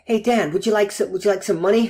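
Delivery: lightly put-on American accent; mock American salesman's offer. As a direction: pitch it up in an amateur American accent. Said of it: "That's my American accent".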